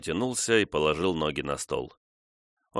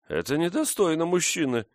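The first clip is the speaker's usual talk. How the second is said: grumbling; 11 semitones higher than usual. A narrator's reading. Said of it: "проворчала дева".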